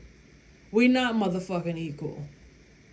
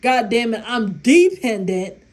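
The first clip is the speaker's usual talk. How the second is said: louder, laughing through it; laughing outburst; 7 dB louder than usual. Retold or imitated. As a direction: blurt it while cracking up.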